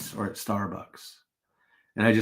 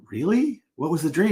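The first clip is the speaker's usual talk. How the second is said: higher, surprised "Really?" of an eager barista; eager surprise; 5 semitones higher than usual. Retold or imitated. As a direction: perk up, hooked on the story.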